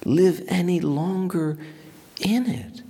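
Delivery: high, slow whisper; awed whisper. Retold or imitated. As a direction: hush it, drawing the question out. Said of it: "He says".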